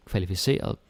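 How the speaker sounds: kvalificeret with stress landing on -ce-; stress on ERE. Shown as a demonstration. Teacher marking stress: kvalificeret stressed on -ce-. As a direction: lean on the ce in kvalificeret. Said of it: "the stress has to be on the E R E".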